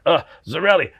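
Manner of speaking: a hint of an Italian accent on the name; a light Italian accent, calling his drummer; singer's Italian accent greeting the mother backstage; a singer's Italian accent. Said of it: "Frankie's got that Italian accent".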